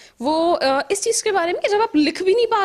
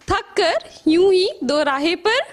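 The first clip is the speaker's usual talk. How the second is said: poetry recital; slower than usual. Acted. Leads audience into refrain.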